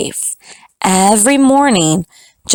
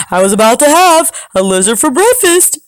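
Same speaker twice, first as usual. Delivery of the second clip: fast roadrunner voice; 6 semitones higher, faster than usual. Acted. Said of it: "said the roadrunner".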